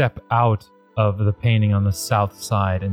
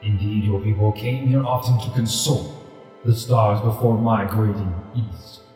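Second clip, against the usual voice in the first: deep rumbling voice. Acted. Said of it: "a deep rumbling voice emanates from this ghostly tiger".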